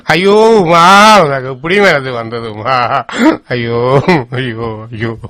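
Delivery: a rising lament that dies away; mournful wail. Acted. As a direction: cry out to her, then fade into sobs. Widower calls to dead wife.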